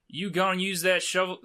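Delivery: badly attempted Aussie challenge; terrible Australian accent. Traveller challenging the knight about his shovel, bad Australian accent. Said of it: "sorry for the terrible Australian accent".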